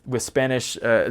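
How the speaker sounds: ordinary talk, nothing marked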